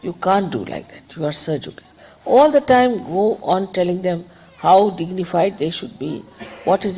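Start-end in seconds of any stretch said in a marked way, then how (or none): 0.0-1.9 put-on encouraging a child. Shown as a demonstration. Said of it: "the best thing would be to say".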